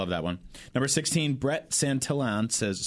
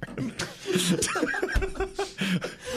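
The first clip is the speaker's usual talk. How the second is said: high-pitched burst of laughter; cracking up at own joke. Real, not acted.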